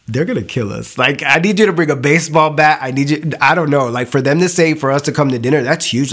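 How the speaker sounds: frantic warning to friends; panicked. Retold or imitated. Panicked retold words to boyfriends.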